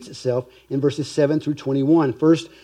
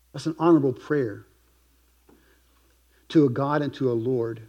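usual speaking voice

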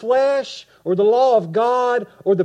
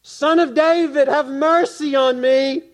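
higher, louder desperate plea; louder crying out; 7 semitones higher, 6 dB louder than usual. Acted. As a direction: cry it out even harder. Over and over and over again.

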